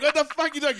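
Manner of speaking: high, loud incredulous comeback; indignant retort. Retold or imitated. Golfer answering a friend who doubts him, indignant. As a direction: re-enact being outraged by the accusation. Retold argument over a golf score.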